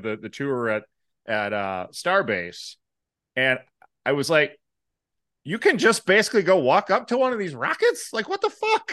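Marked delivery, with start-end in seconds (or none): 5.4-8.9 rising disbelief, ending in a high squeak; incredulous. Retold or imitated. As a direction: blurt it out in shock. Retelling his disbelief at the tour.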